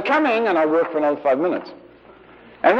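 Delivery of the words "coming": put-on higher-pitched child calling back; child answering mother. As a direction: call back lightly as a busy child. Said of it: "And I'd say".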